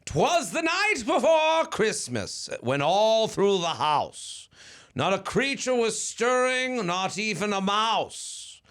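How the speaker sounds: Santa voice. Acted. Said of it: "I'm gonna do the Santa voice for it".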